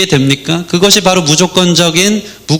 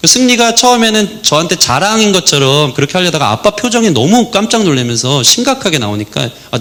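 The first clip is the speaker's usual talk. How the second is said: usual speaking voice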